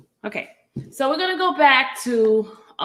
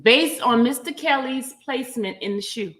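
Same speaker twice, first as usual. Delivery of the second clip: formal document reading; 2 semitones higher, 3 dB louder than usual. Real, not acted. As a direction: read a legal motion out item by item.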